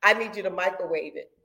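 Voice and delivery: begging the Lord to hurry; pleading prayer. Retold or imitated. Speaker retelling her prayer to the Lord, pleading and blunt. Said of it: "I said".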